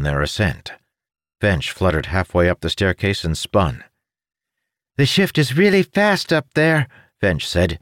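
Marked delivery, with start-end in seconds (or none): 5.0-6.9 high, odd little creature voice; chirpy winged creature, helpful. Acted.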